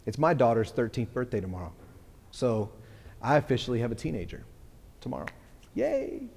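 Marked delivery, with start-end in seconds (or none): 5.7-6.3 high, loud whoop of joy; excited cheer. Real, not acted. Pastor celebrating his daughter turning thirteen, excited whoop. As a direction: cheer it out like a proud dad.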